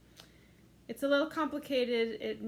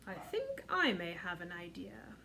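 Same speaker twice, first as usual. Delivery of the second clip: hushed, lower, secretive father; father's quiet voice; 5 semitones lower, 5 dB quieter than usual. Acted. Father telling mother his plan, hushed whisper.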